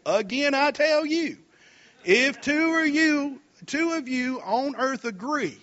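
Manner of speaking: slow, deliberate reading, every word spaced out; slow read-aloud for a beginner; read real slow. Shown as a demonstration. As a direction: spell it out slowly so the first reader can follow. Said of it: "I'll read it to you again real slow".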